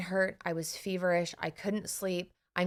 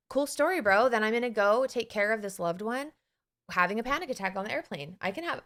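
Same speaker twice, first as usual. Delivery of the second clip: breezy dismissal; 2 semitones higher than usual. Retold or imitated. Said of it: "And I was like".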